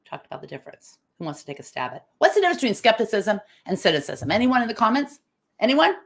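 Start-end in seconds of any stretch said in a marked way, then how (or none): 4.3-5.9 calling out. Real, not acted. Calling out to commenters.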